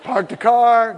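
normal talking voice

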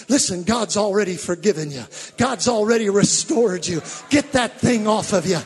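normal talking voice

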